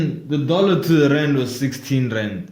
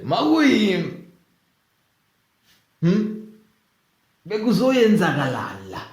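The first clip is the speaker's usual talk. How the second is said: put-on Zulu accent; 6 semitones higher than usual. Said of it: "Oh, Zulu".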